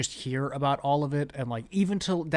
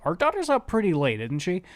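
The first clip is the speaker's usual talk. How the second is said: higher-pitched, suspicious check-in with his wife; paranoid husband; 5 semitones higher, 4 dB louder than usual. Retold or imitated. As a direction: imitate a husband fretting aloud. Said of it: "him just being paranoid".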